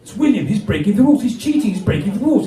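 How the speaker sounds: a touch of a tattling schoolboy; mock urgent pupil calling the teacher; lightly voiced schoolkids. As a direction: tell on a classmate, pitch jumping about. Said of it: "the other kids went".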